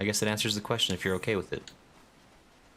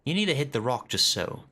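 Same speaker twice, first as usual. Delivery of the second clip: lightly voiced hearty trainer; 3 semitones higher than usual. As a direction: boom it out like a friendly axe coach. Reads trainer NPC lines.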